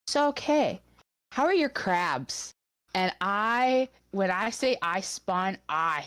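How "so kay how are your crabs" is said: high, teasing quote of the manager; manager's sly high question; mock manager question. Manager quoted asking Kay.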